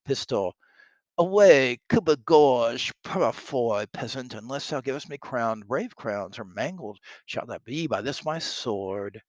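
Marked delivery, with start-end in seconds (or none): 1.2-9.2 blustering soldier. Acted. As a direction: open with a shout, then threaten theatrically. Reads Pistol threatening with his sword.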